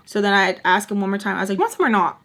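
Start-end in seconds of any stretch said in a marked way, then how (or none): 1.6-2.2 louder, impatient offer; retold exasperated question; annoyed. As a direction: ask it with irritation, louder. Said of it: "'Cause, like, I'm getting, like, annoyed".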